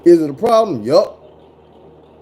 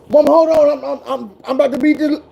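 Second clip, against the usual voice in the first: higher pleading kid voice, mock begging; whiny kid; 8 semitones higher than usual. Gamer kid begging his mom for more time, higher and pleading. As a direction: play a kid who won't quit his game.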